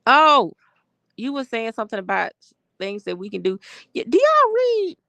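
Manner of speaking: high, loud, loose tipsy voice. Real, not acted. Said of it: "I'm about tipsy".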